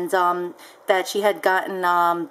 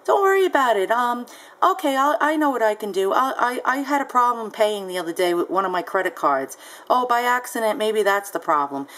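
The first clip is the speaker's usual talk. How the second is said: nonchalant buyer. Retold or imitated. Imitating the buyer on the phone, breezy. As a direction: wave away the problem airily. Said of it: "She was very nonchalant, lackadaisical".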